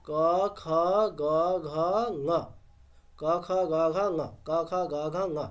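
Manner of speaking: ক খ গ ঘ ঙ chanted in one smooth row, twice over; letter drill demo. Shown as a demonstration. Teacher demonstrates the first step of the drill. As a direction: run through ক খ গ ঘ ঙ as a steady chant. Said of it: "আমি কীরকম বলবো?".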